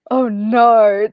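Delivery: normal talking voice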